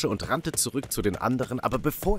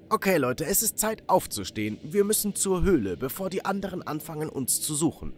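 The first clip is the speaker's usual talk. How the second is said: slightly raised, higher voice for a character; lightly voiced gang member; 5 semitones higher than usual. Steven urging everyone on to the cave, lightly voiced character. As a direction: hurry the group along in a higher pitch.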